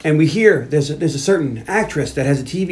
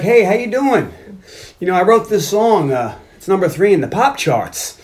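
higher-pitched, put-on pickup voice; mock bragging suitor; 4 semitones higher than usual. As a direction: show off as if chatting someone up. Acting Chuck boasting to a woman.

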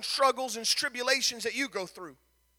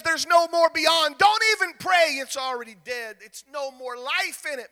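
devil's taunt; 2 semitones higher than usual. Acted. Devil voiced, telling them to quit.

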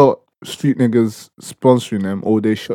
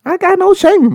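laughing. Retold or imitated. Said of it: "Fleece Johnson".

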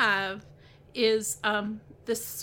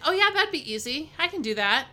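lightly acted breezy assurance, higher; mock confidence; 4 semitones higher, 5 dB louder than usual. People taking on an easy task, mock-confident. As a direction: play the easy yes, pitched up. Voices our naive first thought.

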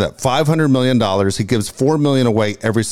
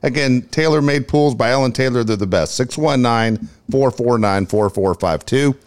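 casual sponsor read, phone number spelled out. Acted. Host reads pool sponsor ad to listeners, easy ad voice.

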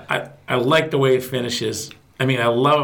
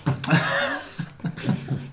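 breathless pained laugh; laughing through pain; 6 dB quieter than usual. Real, not acted. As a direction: laugh though it hurts. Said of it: "It hurts to laugh".

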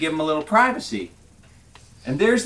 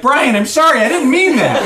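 high, pleading apology; acted urgent remorse; remorseful; 7 semitones higher, 4 dB louder than usual. A narrator's reading. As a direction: plead for forgiveness, beside yourself. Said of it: "just beside himself with remorse".

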